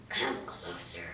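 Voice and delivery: very low, soft, slow growl; wolf luring the girl closer, deep and hushed; lurking wolf. Acted. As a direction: draw her in like a hidden predator. Wolf lurking under the covers.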